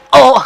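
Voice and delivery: hammed-up absurd pleasure at being hurt; mock enjoyment groan. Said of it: "nggak mungkin dong". (erangan keenakan yang dibuat-buat)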